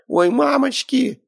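very high, slow frightened squeak; frightened squeal. A narrator's reading. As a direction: squeal in terror. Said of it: "запищала Светка".

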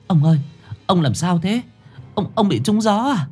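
high, anxious calling out; worried wife. A narrator's reading. Wife Lan finds her husband collapsed, high and anxious. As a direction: rush to him in fear.

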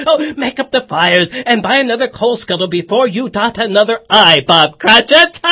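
loud, laughing jubilation; bursting with merry laughter; shouting glad tidings through laughs; laughing joy. Acted.

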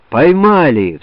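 громкий, высокий радостный вскрик; выкрикни новость с порога. Acted. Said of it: "вскрикнули вошедшие". (десятские вбегают с криком: громко)

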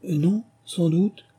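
slow, high, hesitant appeasing; coaxing, soothing voice. A narrator's reading. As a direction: soothe gently with drawn-out words. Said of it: "dit Alice d'une voix caressante, pour l'apaiser".

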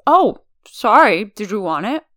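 talking with food in mouth; mouth full. A narrator's reading. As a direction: say it around a mouthful. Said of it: "asks around his full mouth".

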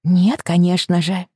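distracted, slow and vague; absent-minded. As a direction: answer with your mind elsewhere. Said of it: "рассеянно отозвалась Рэйчел". (рассеянно)

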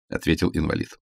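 ordinary delivery, nothing marked

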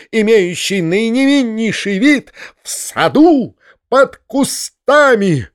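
high shrill rant, slow; squealing. Acted. Foma denouncing the uncle to all, shrill. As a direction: scream it to the whole world. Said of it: "визжал Фома".

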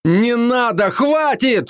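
резко выше, с испугом: «Не надо»; кричит, испугавшись за друга; испуганный крик. Acted. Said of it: "не ори опять так на меня". (испуганно кричит другу)

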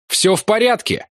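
shouting while running. A narrator's reading. Narrator yelling to friends on the run. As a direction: call out across the ledge. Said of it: "кричал я на бегу".

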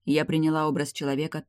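ordinary delivery, nothing marked

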